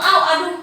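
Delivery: a light acted yelp of pain; mock ouch. Teacher voicing a touch on a hot pan, mock ouch. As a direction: pretend you grabbed a hot pan. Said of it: "pasti responnya langsung".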